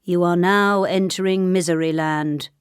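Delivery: intoned on one even note, like an official notice; solemn monotone sign-reading. A narrator's reading. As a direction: read the sign out in a level monotone. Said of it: "a sign which read".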